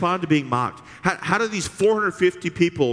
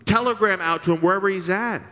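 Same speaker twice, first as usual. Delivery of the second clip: mocking heckle; 6 semitones higher than usual. Continuing Elijah's heckling.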